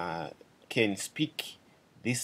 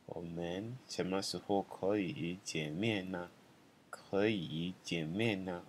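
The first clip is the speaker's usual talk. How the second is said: slow and softer, like a murmured echo; quiet slow second take; soft repeat; 6 dB quieter, slower than usual. Shown as a demonstration.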